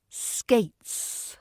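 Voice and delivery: "Skates" isolated, gliding from ay into ts; diphthong gliding to ts. Shown as a demonstration. Teacher modelling "Skates", ay gliding into a clear ts. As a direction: glide through the vowel of "Skates" to a clear ts. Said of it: "glide from that diphthong to the ts".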